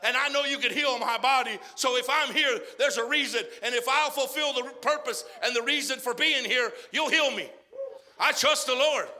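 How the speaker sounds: a loud, earnest plea to the Lord; voiced prayer of trust. Believer in the hospital praying, loud and earnest. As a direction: pray it out, building in faith.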